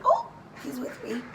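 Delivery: high, sing-song put-on calm; mock calm self-reminder. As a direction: act out calming yourself down. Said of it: "you're like".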